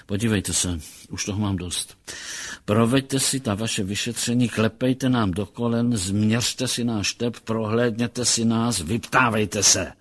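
fed up, hammering out each demand with restrained force; angry outburst. Acted. Captain challenges psychologist to examine them, mildly angry and fed up. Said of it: "vymrštil se zlostným výkřikem".

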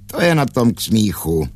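high-pitched gleeful mockery; cackling. A narrator's reading. Gull answers the angry stork, cackling. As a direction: retort like a chortling gull. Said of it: "chechtal se dál Racek".

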